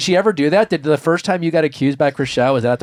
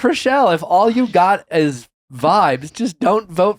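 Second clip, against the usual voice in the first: exasperated; 6 semitones higher, 3 dB louder than usual. Real, not acted. Exasperated plea to Chriselle.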